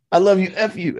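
high joking sign-off; a high, teasing goodbye; playful love-curse. Retold or imitated. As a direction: toss it off lovingly and rudely. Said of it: "I said".

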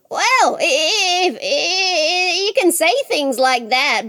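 flustered, stuttering comeback; stammering challenge. Acted. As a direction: stumble into calling his bluff. Jack stammers a challenge to Death.

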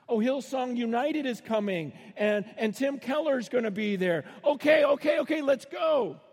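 hammed-up fan eager for the big band; excited Americans. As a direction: churchgoer hyped about a star band, mock shouting. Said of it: "in America".

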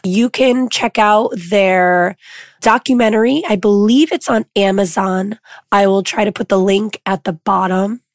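lost voice, hoarse and rough; talking through a hoarse voice. Real, not acted. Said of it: "I lost my voice".

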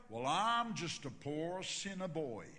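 slow, drawn-out self-deprecating reply; lightly voiced Texan. Texan churchgoer answering the pastor's greeting, slow and drawn out. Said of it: "he'd always respond exactly the same".

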